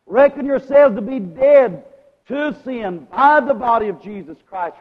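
high, loud scripture proclamation; preaching. Real, not acted. Preacher repeating Paul's command to congregation, forceful preaching. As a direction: ring the verse out over the congregation.

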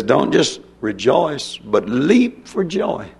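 slow, drawn-out reading of the verse; slow scripture quote. Acted. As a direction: stretch every word of "Don't just rejoice, but leap for joy". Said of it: "It says here".

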